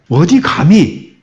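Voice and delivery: slow, drawn-out indignant challenge; how dare you, mildly acted; mock scolding. Bystander rebuking the woman for touching Jesus, mock scolding. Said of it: "혼내려고 하지 않았을까?".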